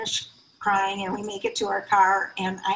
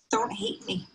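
breathy, broken whisper of a retold plea; a son's second plea to his mother, whispered; 4 dB quieter than usual. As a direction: whisper it again, as if the voice gives out from crying. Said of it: "what he uttered through his tears".

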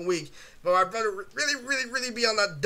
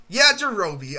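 mock brother catchphrase; 7 dB louder, slower than usual. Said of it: "my brother would be like".

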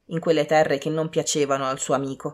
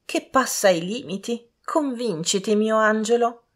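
lightly raised lady's voice; a hint of a pleading mother, higher; 6 semitones higher than usual. A narrator's reading. Mother trying to convince daughter, lightly voiced lady.

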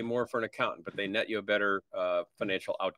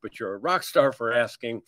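assertive no; 2 semitones higher than usual. Shown as a demonstration. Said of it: "assertiveness and forcefulness to say".

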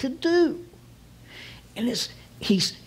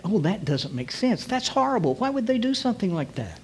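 higher-pitched, quickening protest; mock dismayed disbelief; 4 semitones higher than usual. Good people reacting to depravity, acted dismayed disbelief. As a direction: voice good people who cannot believe it.

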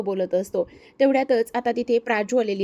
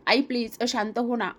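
pleading. Acted. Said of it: "Praju रडायला लागते".

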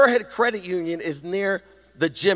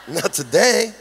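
amused repeat of an inner refusal. Acted. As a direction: repeat it with a laugh, fuller voice. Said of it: "something within me that said".

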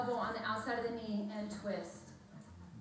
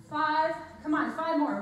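loud, raised coaching count; energetic trainer calling reps; urging countdown; 3 semitones higher, 6 dB louder than usual. Real, not acted. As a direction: push them through the last reps.

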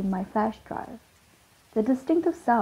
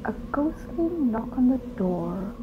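lightly voiced spooky radio narrator; a hint of an eerie announcer reading the tale. Radio storyteller opening the tale, a hint of spooky. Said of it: "went the narrator".

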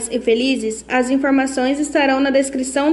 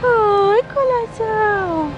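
cooing pet greeting; 8 semitones higher, much slower than usual. Real, not acted. Woman greeting a shy stray cat, high slow coo.

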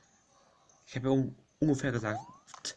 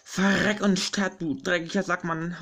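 angry cursing; 5 semitones higher, 3 dB louder, slower than usual. Real, not acted. Cursing an enemy in game.

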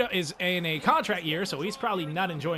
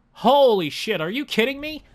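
loud, higher burst of disbelief; shocked outburst; 6 semitones higher, 6 dB louder than usual. Real, not acted. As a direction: blurt it out, floored. Reacting to another goal.

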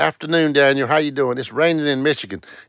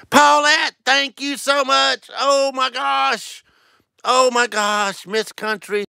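much higher, slow, gushing thanks; overwhelmed thanks; 12 semitones higher, slower than usual. Real, not acted. Thanking Paulette on stream for a gift, high and gushing. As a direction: gasp it out, touched and amazed.

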